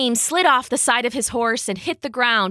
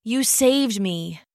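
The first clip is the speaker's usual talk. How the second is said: croaking; slower than usual. Acted. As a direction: whisper it again, voice spent. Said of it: "he croaked".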